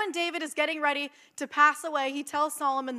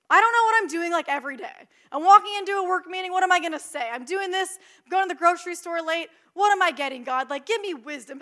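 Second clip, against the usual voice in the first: flustered; 3 semitones higher, 5 dB louder, faster than usual. Acted. Speaker acting out daily scrambles to congregation, flustered. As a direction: rattle it off as if a little overwhelmed.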